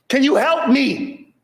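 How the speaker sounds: high, drawn-out mock plea; imitated scream for help. White lady in the grass pleading, mock high wail. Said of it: "screaming for help".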